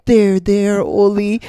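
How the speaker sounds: high, loud mock-comforting voice; high loud mock consoling; mock soothing office lady. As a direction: imitate her consoling a baby. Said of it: "she goes".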